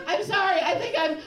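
high, loud, about to be sick; hammed-up queasy apology cut short; panicked apology. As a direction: blurt it out in mock panic. Acted apology as she starts to vomit.

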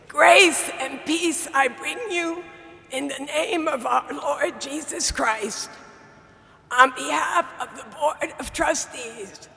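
real hoarse, strained dysphonia voice. Real, not acted. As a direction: speak through a damaged, hoarse voice. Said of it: "diagnosed with a dysphonia that has compromised my vocal ability".

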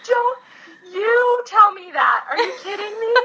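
worn-out hiker shouting down her buddy, furious; furious retold shout. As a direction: scream it back at them in raw rage.

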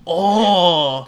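mock Asian accent. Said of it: "That's my whole Asian guy".

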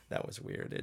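breathy whisper of an aside; hushed sideways comment. Real, not acted. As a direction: drop to a whisper, just between us. Quiet aside on an odd audition.

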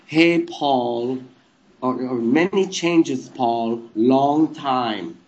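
put-on slow, lightly German-accented statue voice; a hint of an odd German accent; weird German accent. Statue greeting Paul to crack him up, odd German accent. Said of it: "I was speaking in a German accent".

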